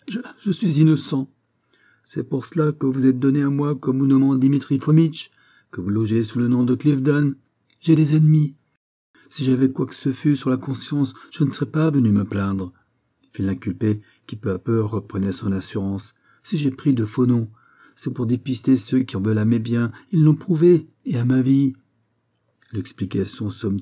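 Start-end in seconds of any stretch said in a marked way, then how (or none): 0.1-12.7 stammering, higher accused man; protesting prisoner. Acted. The accused denies to the judge, flustered protest. 16.4-21.7 stammering, higher accused man; protesting prisoner. Acted. The accused denies to the judge, flustered protest.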